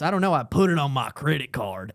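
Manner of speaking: imitating a joking Southern accent; put-on Southern accent. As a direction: lay on a Southern accent, low-pitched. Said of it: "she said it with an accent".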